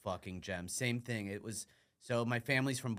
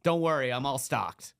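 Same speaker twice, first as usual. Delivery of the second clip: laughing through words; 11 semitones higher, 9 dB louder than usual. Real, not acted. Laughs through the retold line from dad.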